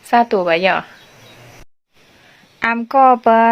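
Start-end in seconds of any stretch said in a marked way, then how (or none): 2.6-3.4 says อามก็ปะ as a clear Lua greeting; a teacher says อามก็ปะ for viewers to hear; Lua phrase. Shown as a demonstration. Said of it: "แปลว่า".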